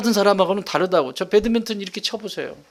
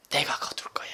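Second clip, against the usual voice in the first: whisper; 13 dB quieter than usual. Acted. God's voice promising, whispered.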